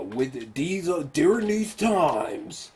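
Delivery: slow, mock-solemn narration; a lightly voiced parody of a heroic voiceover; cheesy Optimus voiceover. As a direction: parody the grand ending speech. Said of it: "mind-blowingly cheesy voiceover".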